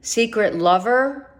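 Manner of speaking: normal talking voice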